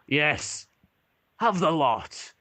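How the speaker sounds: lightly voiced dwarf, rising a little on "the lot"; generous dwarf barkeep. Dwarf barkeep hands over the wine, lightly voiced and generous. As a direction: offer it all up with a light hearty lift. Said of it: "And he goes".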